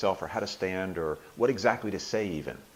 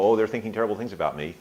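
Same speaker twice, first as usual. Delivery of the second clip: imagined worry; 6 dB louder, faster than usual. Acted. Voices imagined worry about audience.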